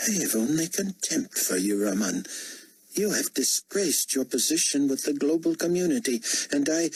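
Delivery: high, imperious condemnation; contemptuous potentate. Acted. Potentate condemning the cabinet member, high and contemptuous. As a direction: pronounce disgrace on a defiant underling.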